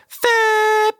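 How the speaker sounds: a high, held horn blast; a squeaky held horn sound; long horn imitation. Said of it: "If you hold it".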